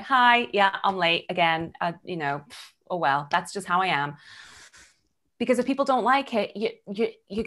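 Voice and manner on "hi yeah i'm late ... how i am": casual shrug, tailing off; shrugging nonchalance. Retold or imitated. Late to a meeting, shrugging off the apology casually. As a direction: toss off the apology like it's nothing. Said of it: "I'm like".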